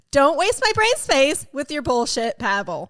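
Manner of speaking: punchy, emphatic replay of your own line; replayed catchphrase. Shown as a demonstration. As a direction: deliver it like a slogan. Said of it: "Can you play that back for me".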